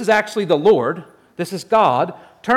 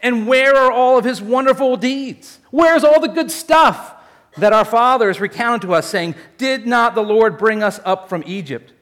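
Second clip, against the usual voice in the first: indignant complaint; 2 semitones higher than usual. Retold or imitated. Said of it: "more like".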